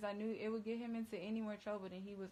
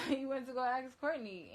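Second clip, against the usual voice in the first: laughing; 5 semitones higher, 6 dB louder than usual. Real, not acted. Laughing while telling story.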